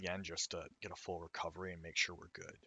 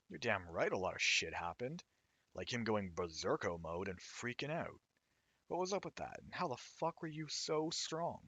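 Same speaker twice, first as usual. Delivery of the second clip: angry voice; 3 semitones higher than usual. Acted. Angry character keeps yelling.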